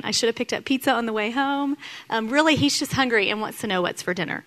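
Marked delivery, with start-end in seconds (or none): 0.0-1.8 imagined grumble. Retold or imitated. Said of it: "what I could hear is".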